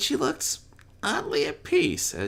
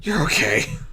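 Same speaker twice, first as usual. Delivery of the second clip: raw tearful voice; 9 semitones higher, 3 dB louder than usual. Acted. Rainbow repeats it to the filly, voice raw with tears. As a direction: barely hold it together, crying. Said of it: "her voice raw as tears poured".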